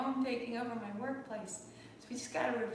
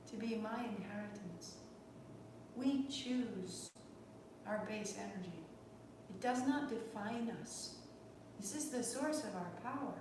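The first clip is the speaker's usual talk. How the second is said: soft, unhurried guided reflection; reflective closing talk; 3 dB quieter than usual. Acted. Yoga teacher closing class, reflective and soft. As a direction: ease the class into a quiet inward moment.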